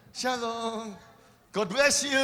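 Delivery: high, loud, playful "Shalom. God bless you"; cheery greeting. Shown as a demonstration. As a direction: greet like a beaming church friend. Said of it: "kita ngomong".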